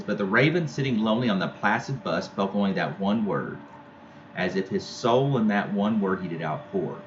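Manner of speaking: measured poetry recital; poem reading. Acted. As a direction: read the verse aloud for the class. Teacher reads poem aloud.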